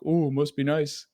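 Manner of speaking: slow, drawn-out sarcastic jab; mock envy, dripping with sarcasm. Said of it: "where I get very sarcastic".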